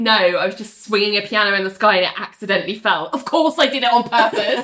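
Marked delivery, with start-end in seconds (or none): none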